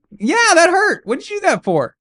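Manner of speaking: put-on a little boy whining at mom; sulky hurt kid. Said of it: "I'm like".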